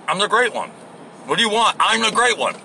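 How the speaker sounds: a hint of a girlish boast; Mark Levin. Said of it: "sound like a little girl when you talk".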